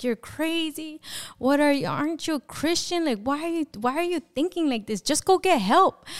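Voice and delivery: high-pitched exasperated scolding, not fully shouted; mild mock yell, incredulous and high; retold screaming. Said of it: "I start screaming at him".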